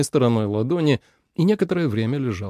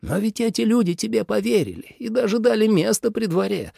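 much higher, urgent father; alarmed father; 10 semitones higher than usual. A narrator's reading. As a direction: press the son in alarm. Father pressing son. (отец встревожен, высоко)

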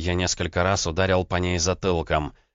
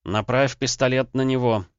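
confident; 6 semitones higher than usual. Acted. Husband urging wife to aim, forcing confidence. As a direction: force certainty into it. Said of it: "как можно увереннее произнёс я".

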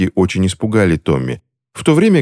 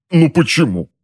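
higher plaintive why; higher pained whine; whining; 10 semitones higher than usual. A narrator's reading. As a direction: plead with the ceiling. Husband whining in pain.

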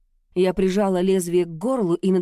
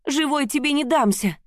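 higher, defiant cry; fearful defiance; 8 semitones higher than usual. A narrator's reading. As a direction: throw it at him, scared but fierce. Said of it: "и страх, и злость".

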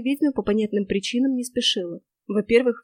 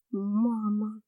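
much softer, breathed out in shock; 8 dB quieter than usual. Acted. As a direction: let the word out on a breath. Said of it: "выдохнула я". (испуганно выдохнуть «мама»)

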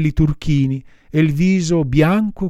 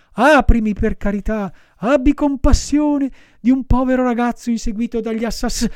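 high, urgent begging cut off mid-word; desperate cry; 9 semitones higher, 3 dB louder than usual. A narrator's reading. Pinocchio chased by assassins begs for mercy, desperate cry. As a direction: plead for your life at a high pitch. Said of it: "gridava Pinocchio".

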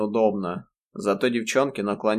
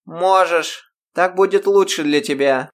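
жёстко; 8 semitones higher, 7 dB louder than usual. A narrator's reading. Грейс давит на Ирму.

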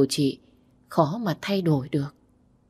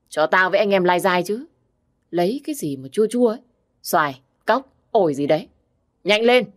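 put-on drunk bossy brother; 2 semitones higher than usual. Drunk brother demands fruit.

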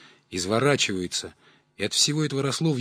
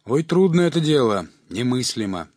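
mock lament; 2 semitones higher, 5 dB louder than usual. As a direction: fake the grief to raise the price. Swindler fakes sorrow.

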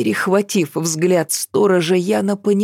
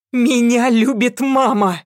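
defiant shout; 6 semitones higher than usual. A narrator's reading. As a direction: hurl it at the demon. Girl defying the demon.

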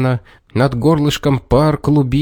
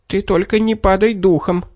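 reassuring; 7 semitones higher than usual. A narrator's reading. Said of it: "стал успокаивать её человечек".

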